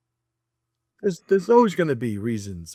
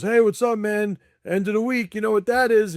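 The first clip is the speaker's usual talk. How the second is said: higher, bright mock-friendly greeting; mock hearty workman; 7 semitones higher than usual. Mocking one workman greeting his buddy, higher and hammed-up. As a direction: ham up a chummy construction guy. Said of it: "one of them goes".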